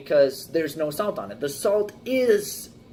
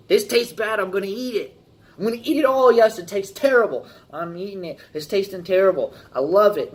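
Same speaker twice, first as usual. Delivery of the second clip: mock eager eater; 4 semitones higher, 4 dB louder, faster than usual. Mocking someone eating a bad fry.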